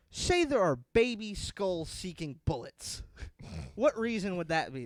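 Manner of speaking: loud, slow, pointed question; mock anchor; news anchor. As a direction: challenge the guest, holding back laughter. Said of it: "the guy goes".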